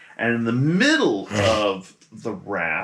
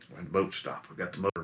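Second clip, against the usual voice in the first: confused captain; 5 semitones lower, 10 dB quieter, faster than usual. Acted. Captain confused, motor dead.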